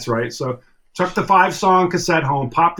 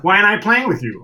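higher-pitched mock snap; retold snap; 5 semitones higher than usual. Bandmate challenging the drummer in a retold spat, mock snapping. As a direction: imitate an irritated challenge, voice raised in pitch. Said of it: "he snaps and he goes".

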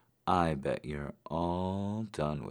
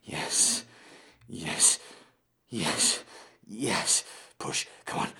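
gym bro; 4 dB louder, faster than usual. Acted. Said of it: "coach-like cheering".

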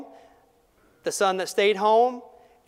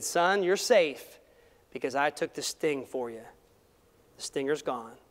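gentle reassurance; 3 semitones lower than usual. Retold or imitated. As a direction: soothe a frightened child. Father comforting son.

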